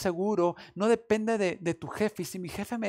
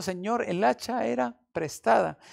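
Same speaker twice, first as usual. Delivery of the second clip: lament; 5 semitones higher, 3 dB louder than usual. Retold or imitated. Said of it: "exclamó diciendo".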